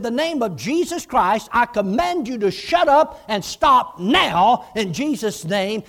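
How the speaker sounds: slow, loud rebuke of the demon in Jesus' name; commanding rebuke. Retold or imitated. Preacher voicing Hagin rebuking a demon, slow loud command. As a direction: command the demon to shut up, slowly and loudly.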